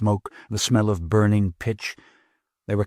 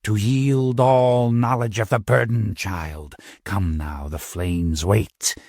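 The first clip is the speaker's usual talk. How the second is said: menacing coven leader; slower than usual. Acted. Coven leader presses child.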